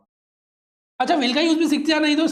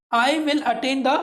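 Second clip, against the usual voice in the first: slow model reading; 2 semitones higher, much slower than usual. Shown as a demonstration. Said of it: "आर नहीं बोलना है".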